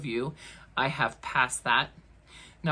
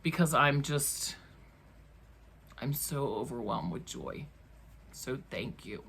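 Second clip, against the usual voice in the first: quivering voice; 4 semitones lower, 7 dB quieter than usual. Real, not acted. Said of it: "my voice is quivering a little bit".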